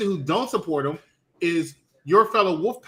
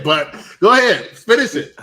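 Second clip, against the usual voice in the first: imitating; 2 semitones higher, 9 dB louder than usual. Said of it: "he said".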